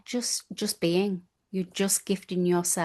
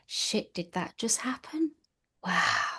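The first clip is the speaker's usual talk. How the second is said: whispered surprise; 4 semitones higher, 4 dB quieter than usual. Retold or imitated. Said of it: "you do have the".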